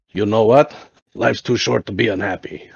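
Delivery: lightly imitated German accent; old German buddy's accent, lightly done; a hint of a German accent. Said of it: "like, crazy German accent".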